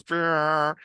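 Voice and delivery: high buzzing horn noise with the lips; imitated horn blast. Joan's horn blast at the wedding, a high buzzing imitation. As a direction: mimic a hand horn, a quick high blare. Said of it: "but it goes".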